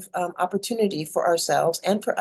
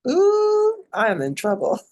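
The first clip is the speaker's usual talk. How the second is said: put-on kid caught in trouble; 7 semitones higher than usual. Child seeing mom's look, high alarmed gasp. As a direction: squeal like a kid who knows she's caught. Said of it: "it'd be like".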